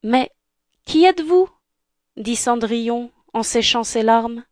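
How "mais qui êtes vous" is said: Cinderella voice. Acted. Cinderella surprised.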